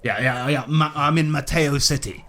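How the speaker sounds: hearty, swearing colonial gent greeting the party; a lightly voiced jolly British explorer; bluff British adventurer. Willie greets the newcomers, a lightly voiced hearty British gent.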